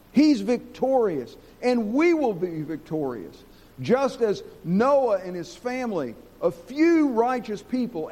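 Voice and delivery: slow, emphatic sermon delivery; emphatic preaching. Acted. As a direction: preach it deliberately, stretching the key words.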